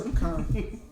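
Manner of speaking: "pecan" with a swallowed first vowel, p'KAHN; alternative pronunciation. Shown as a demonstration. Game master answering the player's pronunciation, alternative pronunciation. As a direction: say "pecan" as puh-KAHN, open AH in the last part. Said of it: "It's pronounced pecan".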